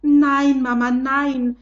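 put-on boy crying out in despair to his mother; desperate cry. A narrator's reading. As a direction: beg frantically to stop her. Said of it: "rief Paul verzweifelt".

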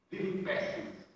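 breathed out, nearly a whisper; hushed lament. Acted. Preacher sighing to the congregation, hushed. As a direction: let it fall away to almost nothing.

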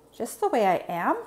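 tentative rising question; Zoe, unsure. Acted. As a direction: ask with a touch of doubt. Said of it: "still unsure".

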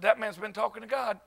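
soft, dry realization; retold hushed admission; mock awed aside. His awed reaction, played for laughs.

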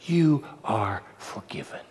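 soft breathy slow whisper. Acted. Preacher whispering the same words to the sinner. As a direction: drop it to a whisper. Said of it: "Read my lips".

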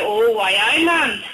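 put-on Geordie catchphrase, rising on the end; mock Geordie accent. Comic mimicking people who tease a Geordie family, mock Geordie accent. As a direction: do a hammed-up Newcastle accent. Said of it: "my family are from Newcastle".

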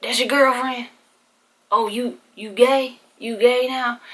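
a hint of a shocked father; startled dad. Dad realising his daughter is gay, startled. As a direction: let it dawn on you, teasing.

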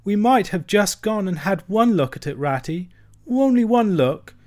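a small creature weeping for his lost home; sobbing lament. A narrator's reading. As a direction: plead through sobs, voice climbing. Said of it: "he sobbed forth at last, brokenly".

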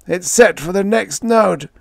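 high, anguished wail; despairing moan. A narrator's reading. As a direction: wail it in helpless panic. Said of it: "Fitzhugh moaned".

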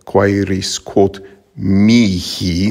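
mihi stressed on the first syllable; prose stress. Shown as a demonstration. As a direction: hit the MI of mihi. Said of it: "accent would be on the first syllable".

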